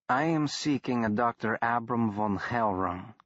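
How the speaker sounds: lightly voiced Scandinavian growl; a hint of a thick Scandinavian accent, gruff. Danish reformer greeting the boy at door, mild Scandinavian growl. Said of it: "he growled in a thick Scandinavian accent".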